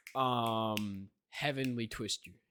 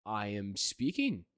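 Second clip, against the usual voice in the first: lower, slow, deadpan skeleton-like voice; his deep online voice; 6 semitones lower, slower than usual. Shown as a demonstration. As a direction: drop into the deep Sans-style voice, unbothered. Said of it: "nice Sans impression".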